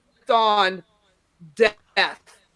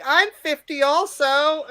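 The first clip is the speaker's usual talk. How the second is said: put-on slow, higher drunk-lady voice; 4 semitones higher, slower than usual. Drunk lady to the comic on stage, slurring lightly imitated. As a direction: lightly imitate a tipsy woman heckler. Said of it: "There was a drunk lady one night".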